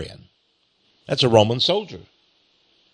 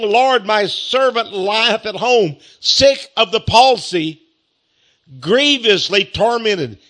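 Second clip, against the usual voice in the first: slow, higher-pitched earnest plea; beseeching; 5 semitones higher, slower than usual. Acted. Centurion begging Jesus for his sick servant, slow beseeching. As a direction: draw it out as an entreaty, pitched up. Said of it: "he went to Jesus begging him, beseeching him".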